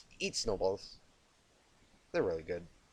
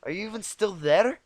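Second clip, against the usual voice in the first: annoyed; 8 semitones higher, 8 dB louder than usual. Acted. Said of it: "quickly gave way to annoyance".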